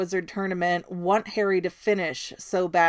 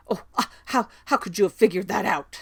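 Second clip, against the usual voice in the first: indignant Ron; faster than usual. Retold or imitated. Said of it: "Ron's all just indignant".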